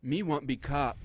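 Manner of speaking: broken-English movie stereotype voice; lightly put-on stereotyped Native American voice; hint of old-western caricature; mock Native American. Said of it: "You sound like a Native American Indian".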